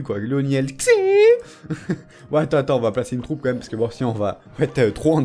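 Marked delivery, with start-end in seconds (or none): 0.2-0.9 Xi sliding up into a high note; rising high. Shown as a demonstration. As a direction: let "Xi" climb at the end. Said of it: "ça part dans l'aigu".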